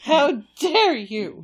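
offended dog voice. Retold or imitated. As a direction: draw it out, wounded. Voicing the dog again.

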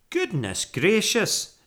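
high, loud, drawn-out surprise; astonished exclamation. A narrator's reading. Housekeeper first seeing the bear, astonished. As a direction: exclaim slowly in amazement. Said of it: "exclaimed Missus Bird".

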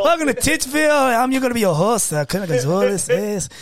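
mock Mexican accent. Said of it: "it gets Speedy Gonzalez".

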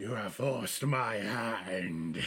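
slow menacing beholder. Acted. Beholder threatens.

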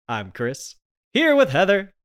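hoarse from a cold; croaky, under the weather; sick voice. Real, not acted. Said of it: "You're not sounding too good there".

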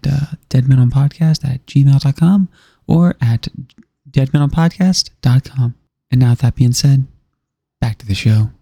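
public radio host. Acted. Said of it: "national public radio voice".

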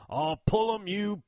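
put-on loud, high old-timer's call; old country boy. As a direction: imitate the old Southerner eagerly proposing a game. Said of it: "from an old boy out there".

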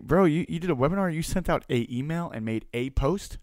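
high, fast incredulous buddy; retold buddy's scolding disbelief; rude disbelief. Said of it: "that sounds rude".

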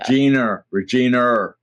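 "Regina" with an added R at the end; drawn-out New England "Regina", ending in R. Shown as a demonstration. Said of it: "the hardest one is in New England".

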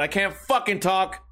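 ordinary talk, nothing marked

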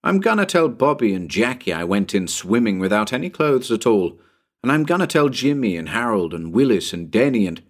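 lightly voiced eager little boy; a hint of a boy listing friends in a rush; excited young boy. Tommy boasts to his companions about swimming, lightly voiced eager boy. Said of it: "Tommy popped out with".

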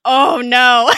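hammed-up horrified reaction; mock dismay. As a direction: wail it in playful dismay. Acting viewer's cringe at bad accent.

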